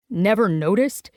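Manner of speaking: a touch of outraged disbelief; mild indignant cry; outrage. Acted. Gray scolding Ivy about her breasts, mild outrage. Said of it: "he cries in outrage".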